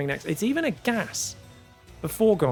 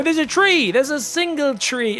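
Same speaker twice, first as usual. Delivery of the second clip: surprised; 8 semitones higher, 5 dB louder than usual. Real, not acted. Caster spots a lone tree.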